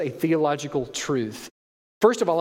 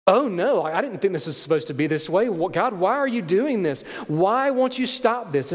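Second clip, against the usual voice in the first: panicked confusion; 2 semitones higher than usual. Retold or imitated. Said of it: "It's not this".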